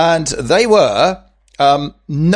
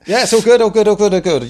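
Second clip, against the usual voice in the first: excited; 7 semitones higher, 3 dB louder, faster than usual. Real, not acted. Playful banter after posh voice.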